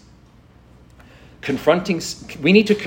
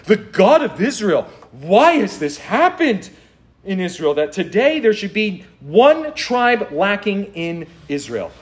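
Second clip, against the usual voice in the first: drawn-out, high-pitched plea to God; theatrical appeal heavenward, quoting the mourners; acted bitter lament; 5 semitones higher than usual. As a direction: cry it out slowly, stressing the complaint. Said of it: "Notice how they say this. Listen to his, these words".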